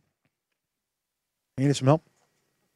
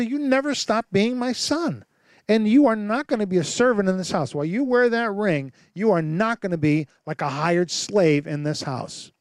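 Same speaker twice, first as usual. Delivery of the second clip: firm loving father; 3 semitones higher than usual. Acted.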